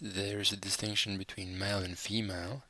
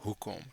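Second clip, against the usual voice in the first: "hoekom" stressed on HOE, with "kom" falling away; stress on first syllable; 5 dB quieter than usual. Shown as a demonstration. Teacher showing learners the emphasis, first-syllable stress on "hoekom". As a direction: put the weight on the "hoe" of "hoekom". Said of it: "emphasis is on the first syllable".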